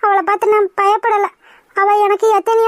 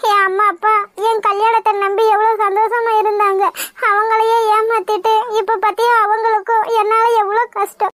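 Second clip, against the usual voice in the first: on the verge of crying; choked-up regret over hurting parents; tearful. Acted. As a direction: confess it through rising tears. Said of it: "ஏன்டி இப்படி அழுதுட்டு இருக்க".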